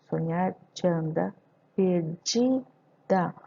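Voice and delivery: "te anda" as "tchanda", then "perdida" stretched; elision shown. Shown as a demonstration. Teacher pointing out the elision, "te anda" merged, "perdida" very slow. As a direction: draw out "di" in "perdida" after a linked "tchanda". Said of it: "aqui temos o tchan".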